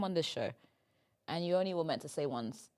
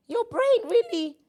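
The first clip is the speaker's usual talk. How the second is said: laughing tease; 10 dB louder than usual. Real, not acted. Teasing friend about ADHD.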